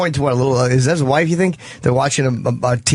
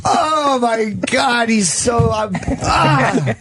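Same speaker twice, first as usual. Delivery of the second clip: high, drawn-out sigh after laughing; slow, higher, worn out by laughter; spent from laughing; 6 semitones higher, much slower than usual. Real, not acted. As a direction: catch your breath after a laughing fit. Recovering from laughing fit.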